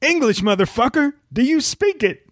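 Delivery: high, tough movie-gangster voice; Samuel L. Jackson impression. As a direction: growl it like a badass gangster. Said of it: "I can't do his voice great".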